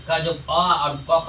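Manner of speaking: slow, clear अ and क sounded out from the throat; letters sounded out. Shown as a demonstration. Teacher showing students throat letters, slow and clear. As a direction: pronounce अ and क slowly. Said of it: "उसका उच्चारण कंठ से होता है".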